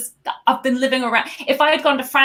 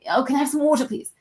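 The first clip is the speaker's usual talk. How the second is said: polite British request, pitched up; mock-proper, higher-pitched ordering; well-spoken polite request; 5 semitones higher, faster than usual. Shown as a demonstration. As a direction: ask daintily, with a British "water". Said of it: "you don't go".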